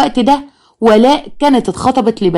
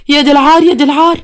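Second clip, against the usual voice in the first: high, rising cries of shock; shocked wail; 5 semitones higher than usual. A narrator's reading. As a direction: cry out in horror and shame. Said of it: "قالت بصدمه". (صرخة صدمة عالية)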